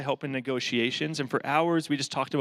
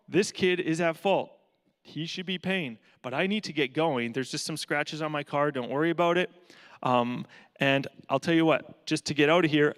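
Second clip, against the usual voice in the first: firm negotiating. Retold or imitated. Negotiating firmly with the dad.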